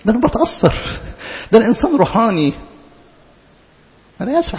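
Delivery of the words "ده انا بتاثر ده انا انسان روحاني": mock self-praise. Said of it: "انا بتزكى في عينين نفسي".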